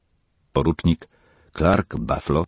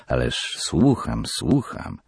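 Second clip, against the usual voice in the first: lower, slow soothing reassurance; distracted father; 4 semitones lower, slower than usual. Father soothes Peggy while still distracted. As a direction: brush her off gently, half listening. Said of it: "mruknął ojciec".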